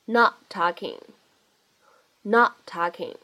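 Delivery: "not talking" with the t of "not" held, unreleased; loss of plosion. Shown as a demonstration. Teacher repeats for learners, "not talking" with unreleased t. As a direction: stop on the t of "not" before "talking". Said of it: "我们可以做一个失去爆破".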